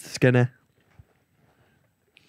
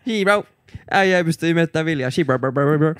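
pizzeria guy imitation; 2 semitones higher, faster than usual. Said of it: "ne on silleen".

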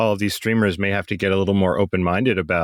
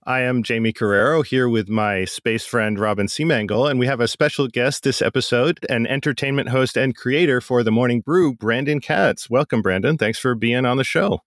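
smooth podcast host intro; announcer voice; 2 semitones higher than usual. Real, not acted. Host opening the show for space fans, announcer voice. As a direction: welcome the listeners like a radio announcer. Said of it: "you got that sweet, sweet announcer voice".

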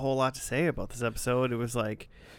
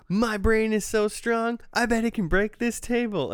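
mock scream; 10 semitones higher, 4 dB louder than usual. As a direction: imitate a manic boast, pitched way up. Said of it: "he screams and he's like".

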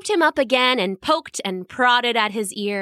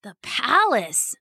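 with wonder; slower than usual. Acted. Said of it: "he thought with wonder".

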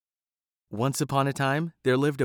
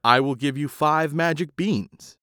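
stranger's offer; 3 semitones higher, 4 dB louder than usual. A narrator's reading. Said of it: "The man answered".

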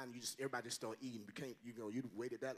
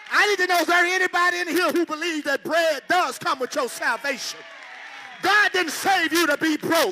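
loud, high, shouting climax of the sermon; fired-up preacher shouting at the congregation; shouted preaching; 13 semitones higher, 18 dB louder than usual. Acted. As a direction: preach it at full force to the crowd.

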